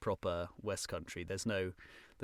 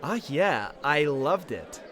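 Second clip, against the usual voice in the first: louder, brighter RP voice for Trev; 4 semitones higher, 4 dB louder than usual. Acted. Trev loudly praising the panto in RP. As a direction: Trev holding forth in clear RP, louder. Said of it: "And also be Trev. So he's just R P".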